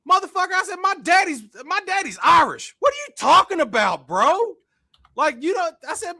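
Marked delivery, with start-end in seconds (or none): 0.1-4.6 high, loud mock shout back; retold yell. Retelling how he shouted back at the driver, loud and high. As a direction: yell back in disbelief, half laughing.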